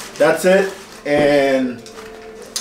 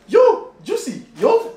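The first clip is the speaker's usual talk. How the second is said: calling out; slower than usual. Real, not acted. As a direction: shout her name across the room. Calling out to Juicy.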